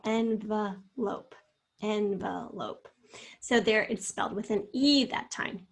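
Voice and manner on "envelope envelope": envelope slowly, schwa in the middle syllable. Shown as a demonstration. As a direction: break envelope apart to show the uh. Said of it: "you hear the schwa in the second syllable".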